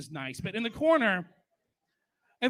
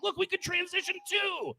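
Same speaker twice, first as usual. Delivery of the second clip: mock church voice; 10 semitones higher than usual. Mocking the church's voice.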